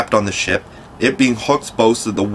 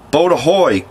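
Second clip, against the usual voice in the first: louder, higher pirate captain's call; Hook's hail; 6 semitones higher, 3 dB louder than usual. A narrator's reading. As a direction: Hook hails his boat across the lagoon. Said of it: "again came the cry".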